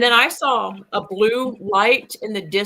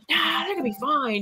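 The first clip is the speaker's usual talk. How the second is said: imitating a higher, breezy brush-off; breezy dismissal; 6 semitones higher than usual. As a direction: wave the worry away. Friend brushes off worry, retold.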